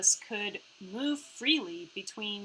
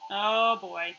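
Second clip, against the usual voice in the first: ordinary talk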